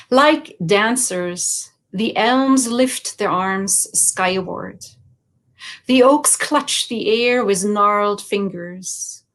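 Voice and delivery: slow, measured poetry recital; poem reading. Acted. Poet reads Silhouettes to an audience, slow poem reading. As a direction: read the verse slowly, pausing after each image.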